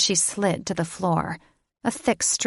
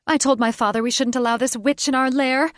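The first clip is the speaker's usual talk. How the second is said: higher, shrill-voiced monster girl in a fury; bird woman Catherine; 6 semitones higher, 4 dB louder, faster than usual. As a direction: spit it out as a half-bird madwoman.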